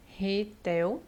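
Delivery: "carretel" broken up with long pauses; separação silábica. Shown as a demonstration. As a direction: dictate carretel syllable by syllable. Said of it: "Então, vai ficar o". (carretel dividido em sílabas, devagar)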